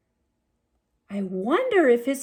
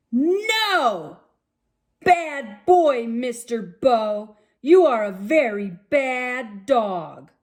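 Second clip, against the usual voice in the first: a hint of an angry owner scolding the dog; mild scolding. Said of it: "the tall man ... said".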